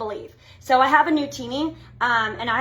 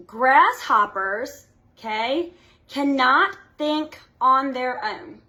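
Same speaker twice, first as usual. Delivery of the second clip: slow emphasis; slower than usual. Shown as a demonstration. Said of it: "Listen to this".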